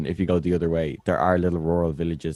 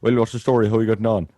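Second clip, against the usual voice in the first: higher, louder regional Irish imitation; strong Irish accent; 3 semitones higher, 4 dB louder, faster than usual. Irish speaker showing how some Irish accents sound, exaggerated imitation. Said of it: "they'd sound like this".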